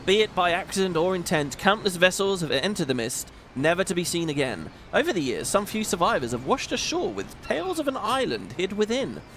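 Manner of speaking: lightly voiced gruff sea captain; a hint of a stately old admiral; Chief's voice. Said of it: "Something about doing that guy's voice".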